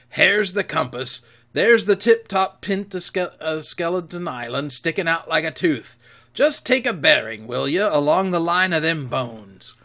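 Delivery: rough-voiced pirate quartermaster; pirate Silver. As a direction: growl it like a sly sea cook. Silver speaking.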